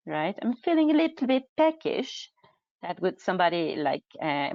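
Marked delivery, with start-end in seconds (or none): 0.4-2.3 lightly put-on British accent, pitched higher. Shown as a demonstration. Teacher playing a hungry Brit for her class, in a light British accent. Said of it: "somebody from Britain would say that".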